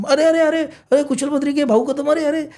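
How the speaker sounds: high, excited shouts to friends on the platform; calling out. Retold or imitated. Fans call out from train.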